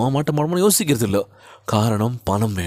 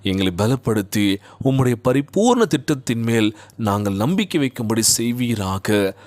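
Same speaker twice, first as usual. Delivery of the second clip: slow, drawn-out pleading prayer; earnest sing-song preacher's prayer. Real, not acted. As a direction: pray aloud with stretched phrase endings. Leads a prayer.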